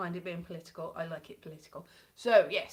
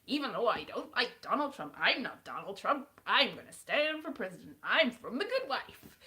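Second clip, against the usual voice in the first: badly faked American politician accent; attempted American accent. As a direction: put on a shaky-handed American accent, stretched at the end. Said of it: "I have not mastered any of the accents".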